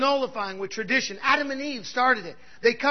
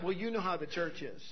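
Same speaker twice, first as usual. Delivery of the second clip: low, soft, weary voice of a disillusioned woman; a lightly voiced jaded neighbour; dismissive church complaint; 7 semitones lower, 11 dB quieter than usual. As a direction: sigh it out like she's given up on church. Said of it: "she'll tell me all the time".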